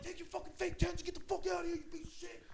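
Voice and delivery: retold yell. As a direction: bark him out of the room. Retold yelling at the kid.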